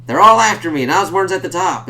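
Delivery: high, loud panicked cry of a hunted man; frantic outcry. Retold or imitated. Reviewer voicing a panicked character, high and loud. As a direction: blurt it out like everyone's chasing you.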